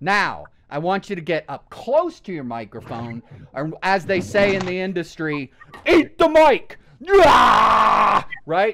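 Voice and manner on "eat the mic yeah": very loud, very slow, drawn-out metal scream. Showing how to get up close to the microphone: metal band scream. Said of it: "Like if I was screaming in a metal band".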